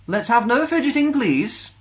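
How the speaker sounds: high, loud, stern schoolteacher voice; strict teacher. A narrator's reading. Teacher warning fidgety pupils at the fountains. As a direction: keep the children in line. Teacher Missus Moon speaks.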